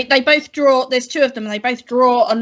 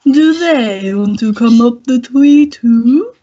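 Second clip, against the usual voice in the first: creature voice; 2 semitones lower, 4 dB louder, slower than usual. Acted. GM voicing a blob creature.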